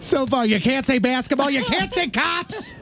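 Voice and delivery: high, drawn-out imitation of exasperated yelling; mock yelling. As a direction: mimic a host berating contestants, stretching it out. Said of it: "Riz just yelling at you what you should have said".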